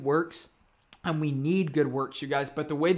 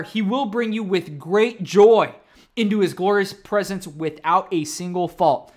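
slow and louder, "joy" held; slow proclaiming; 5 dB louder, slower than usual. Shown as a demonstration. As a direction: proclaim it slowly, swelling on "joy". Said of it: "I'm gonna read it again".

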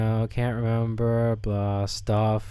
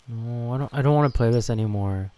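usual speaking voice

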